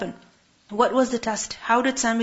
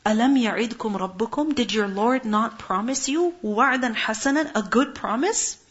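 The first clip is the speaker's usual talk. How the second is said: rising rebuke. Retold or imitated. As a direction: scold the people, climbing as you go. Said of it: "قال, he said".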